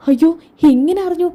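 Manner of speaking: high-pitched dismayed question; dismayed surprise. Acted. Mother learning secret is out, dismayed. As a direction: wail it lightly in alarm.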